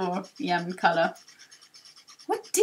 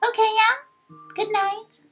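high, wistful youngster voice; earnest young hero; 9 semitones higher, 6 dB louder than usual. Acted. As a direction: think aloud as a little adventurer, then reassure. Young hero reflects at bedtime.

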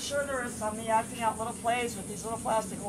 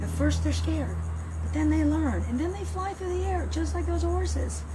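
building excitement; 7 semitones higher, 5 dB louder than usual. Acted. Trainer hyping the dog like a horse movie, rising excitement. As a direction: build it like an epic movie trailer.

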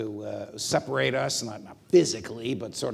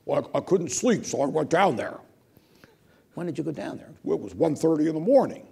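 higher, louder confession; sheepish Scalia; 5 semitones higher, 6 dB louder than usual. Retold or imitated. Scalia confessing his night library visit, higher and louder. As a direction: own up with a grin.

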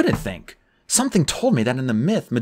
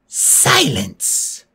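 sharp, snarled command; Medusa snarling. A narrator's reading. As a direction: snarl to cut someone off. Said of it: "Medusa snarled".

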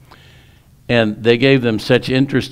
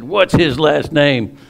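angry teacher; 5 semitones higher, slower than usual. Retold or imitated. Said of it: "she gets madder and madder".

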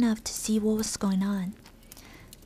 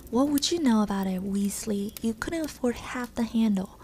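snapping; 4 dB louder than usual. Acted. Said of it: "Malfoy snapped back".

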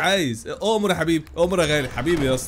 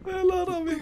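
whimpering; 11 semitones higher, 6 dB quieter than usual. Real, not acted. Shocked at something in game.

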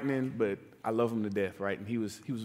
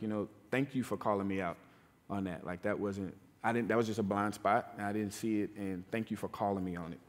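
softer, sincere apology; humble thanks; 4 semitones lower, 6 dB quieter than usual. Retold or imitated. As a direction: quietly own the blind spot.

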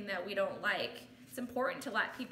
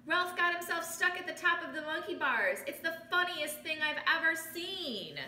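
high, louder gleeful shout; mocking yell; 6 semitones higher, 4 dB louder than usual. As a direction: shout it across the playground. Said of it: "Tony yelled".

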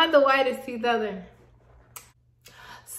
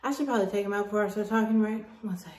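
strips over teeth, lips careful; talking around teeth strips; with whitening strips on teeth; faster than usual. Real, not acted. Seen 3: Glossy strip film visible on teeth; peeled off around +7 to +11.

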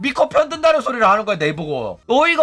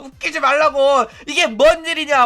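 mock disbelieving protest; 5 semitones higher than usual.

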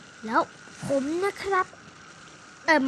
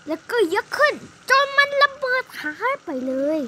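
higher, rising triumphant glee; gleeful build; 7 semitones higher than usual. Pretend. Hero gloating over blowing up zombies. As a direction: savour the explosion plan.

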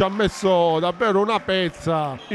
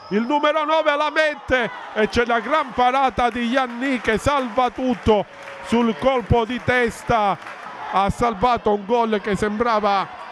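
excited save call; 3 semitones higher than usual. Real, not acted. Big save, commentator erupts.

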